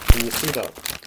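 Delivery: munching loudly while talking; crunching chips. Real, not acted. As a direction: speak over crunchy snacks. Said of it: "Sorry about the noise".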